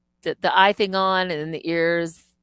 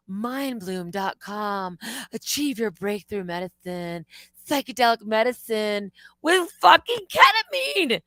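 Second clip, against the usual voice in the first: mock ad read. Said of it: "there's a commercial saying".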